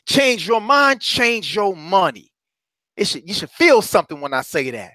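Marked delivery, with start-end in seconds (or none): 0.0-1.0 pumped shout. Shown as a demonstration. Coach showing the energy he wants from listeners, pumped shout. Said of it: "have that kind of energy". 1.0-2.3 slow slogan. Shown as a demonstration. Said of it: "have that kind of energy".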